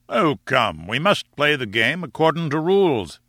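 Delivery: lightly voiced lord with a lilting tune; chiding sporting lord. Lord urges professor to play by rules, mildly chiding. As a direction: gently talk the professor round.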